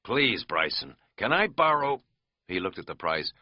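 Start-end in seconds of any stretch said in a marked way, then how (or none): 0.1-2.0 solemn jokeless. Acted. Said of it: "adopted a sudden solemn, jokeless tone".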